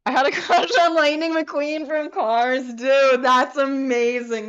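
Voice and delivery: reading the comment through helpless giggles; laughing hard while reading. Real, not acted. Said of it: "There's literally tears in my eyes".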